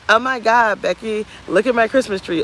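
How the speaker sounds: high, gushing influencer inflection; entertainment voice. Acted. Showing Becky the Christmas tree for entertainment, put-on inflection. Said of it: "changing the inflection of your voice just for entertainment".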